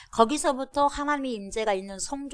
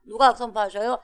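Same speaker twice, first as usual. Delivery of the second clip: ordinary delivery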